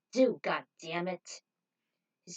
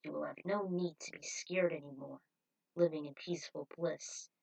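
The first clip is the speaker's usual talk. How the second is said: smooth cult leader; 4 semitones lower than usual. Acted. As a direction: lull them with promises of peace. Cult leader voiced by reader.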